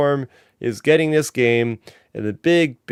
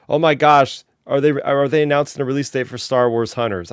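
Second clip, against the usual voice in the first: excited gasp of discovery, replayed; retold excitement. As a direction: relive the excited first reaction, mildly heightened. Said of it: "I got excited".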